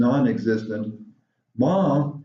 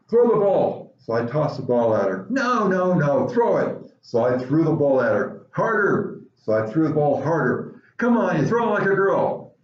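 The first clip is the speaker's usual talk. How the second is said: put-on bossy girl coach; 2 semitones higher than usual. Mary coaches George throwing the ball, bossy girl voice. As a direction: push him to throw harder.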